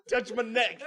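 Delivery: loud whiny plea. Retold or imitated. Student refusing to move tells teacher, loud whining plea. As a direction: beg the teacher like a stuck kid. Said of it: "he goes".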